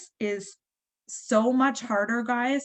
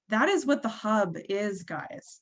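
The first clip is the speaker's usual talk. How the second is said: getting teary. Real, not acted. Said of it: "I'm gonna get teary because of it".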